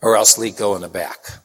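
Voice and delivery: urgent whisper during mass; whispered order. Retold or imitated. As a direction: whisper the priest's order so the congregation can't hear. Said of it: "So Father Dennis says".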